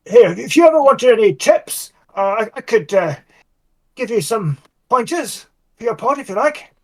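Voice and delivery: lightly placating, lilting upward at the end; placatory, conciliatory. Acted. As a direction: tread carefully, offering a friendly favour. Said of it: "conciliatory tone".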